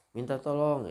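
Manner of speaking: mock cry for help, high-pitched; berteriak minta tolong. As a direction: call out for help as in a retold tale. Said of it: "dia berteriak". (seruan minta tolong yang diperagakan)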